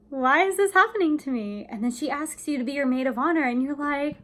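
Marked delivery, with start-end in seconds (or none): 0.1-1.6 self-pity. Shown as a demonstration. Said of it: "you're just kinda like".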